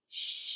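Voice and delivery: teeth close, lips round, blow out "Shh"; voiceless sh. Shown as a demonstration. Teacher showing the "Shh" sound to kids. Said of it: "and my voice is off".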